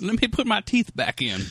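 put-on old man voice.

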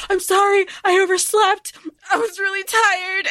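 sheepish excuse. Retold or imitated.

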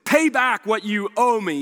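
mildly forceful acted demand; a touch of mock menace. A narrator's reading. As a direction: push it out as a demand. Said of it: "he demanded".

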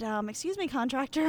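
sweetly polite before a dig; mock polite. To the contractor over the estimate, a mock sweet excuse me. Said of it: "And I said".

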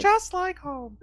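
high sarcastic lilt. Real, not acted. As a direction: tease it with a high voice. Joking echo.

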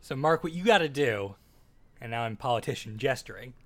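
smooth campaign-trail pitch to a voter; folksy pandering politician. Pretend. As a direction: talk like a politician selling a plan. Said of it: "I like Dan's politician voice".

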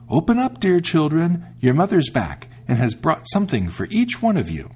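high, sweet sing-song imitation of mother; soft wolf voice. The wolf after eating chalk, coaxing the kids in a high soft voice. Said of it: "it made his voice soft".

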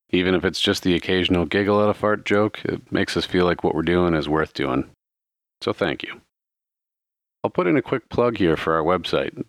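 friendly podcast host read; podcast outro. Acted. Podcast thank-you and plug.

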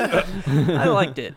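laughing. Real, not acted. Laughs defending his score.

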